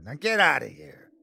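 angry order. A narrator's reading. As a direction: order him out. Large man throwing him out.

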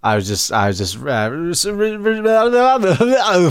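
flustered stammer; tongue-tied, words won't come; guilty nervousness. Real, not acted. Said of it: "my brain's falling out of my ears".

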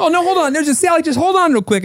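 put-on very high, sing-song Minnesotan accent, overly friendly; a hammed-up Minnesotan accent, sweet and eager to help. Mocking a Minnesotan giving a stranger directions, high sing-song Minnesotan accent. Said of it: "the Minnesotan would".

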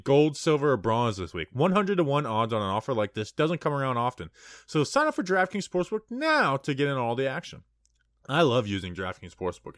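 upbeat podcast ad read; hyped betting ad. Acted. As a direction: sell it like a sponsor spot. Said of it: "You crushed that ad read".

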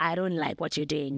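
low, macho warning tone; big dog voice. Retold or imitated. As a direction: puff up like a territorial guy. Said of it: "Then the big dog voice comes out".

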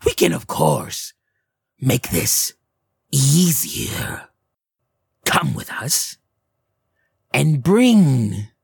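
halting, coaxing hag voice; gray hag. Acted. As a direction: tempt them in a drawn-out hag voice. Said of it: "the one in gray looks to you".

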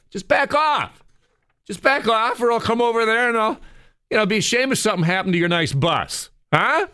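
high, far-off furious cyclist yelling; angry cyclist rant. Retold or imitated. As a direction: rant at the bus like an enraged cyclist.

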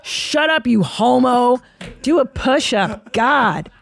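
mock wife telling husband to do a push-up. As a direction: snap at him to toughen up. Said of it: "she's like".

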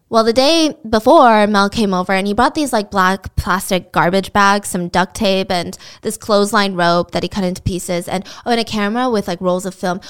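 imitating unenthusiastic testimony; monotone, disengaged recounting; bored witness. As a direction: list the items as if reading off groceries. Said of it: "with the enthusiasm and the emotion".

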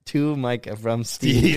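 quoted presentation. Retold or imitated. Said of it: "And then he's like".

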